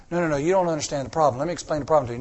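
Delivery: fast, brushing off the answer; lightly voiced complainer; impatient believer. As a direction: hurry him along, a touch exasperated. Acted exchange with a believer.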